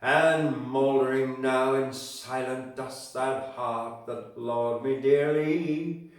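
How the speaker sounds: put-on poem read in a mild Scottish accent, slow and swelling; light Scottish accent. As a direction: give Burns a touch of Scottish lilt for the rhymes. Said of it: "a bit of a, a Scottish accent".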